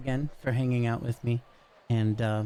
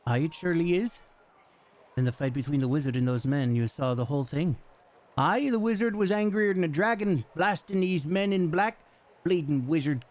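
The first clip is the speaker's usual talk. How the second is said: lightly voiced gruff commoner, raised pitch; rough local townsman; 4 semitones higher than usual. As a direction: play a chatty, rough dockside local.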